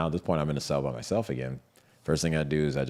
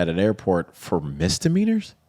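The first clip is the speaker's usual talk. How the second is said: raised, louder outraged protest; retelling the outrage at his arrest, pitched up and pushed; indignant disbelief; 5 semitones higher, 7 dB louder than usual. Retold or imitated. Arrested man protesting to agents, incredulous and loud. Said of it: "I'm like".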